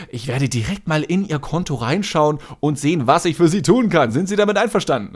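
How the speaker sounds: syrupy call-center politeness; customer service voice. Retold or imitated. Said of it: "so übertrieben freundlich".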